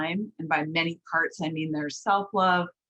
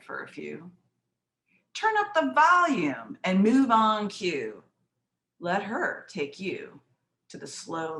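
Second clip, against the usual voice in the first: poem recitation. Acted. Poet to women over fifty about the blues, rhythmic recitation.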